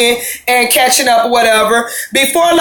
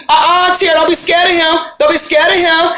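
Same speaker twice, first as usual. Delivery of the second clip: mock urgent shout; 4 semitones higher than usual. Nikki telling Tierra not to fear him, higher urgent shout. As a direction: egg her friend on over the noise.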